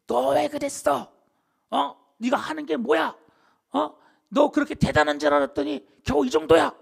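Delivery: high, loud, mock angry telling-off; fiery scolding. Preacher acting a God who scolds failed Elijah, fiery mock scolding. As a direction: berate them as if hugely let down. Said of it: "불처럼 화내시거나".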